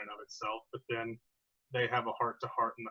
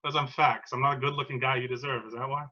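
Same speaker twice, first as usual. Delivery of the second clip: raised-voice, wounded challenge; defensive outburst; 4 dB louder than usual. Acted. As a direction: throw it back at your girlfriend, hurt and loud. Drunk boyfriend in acted quarrel.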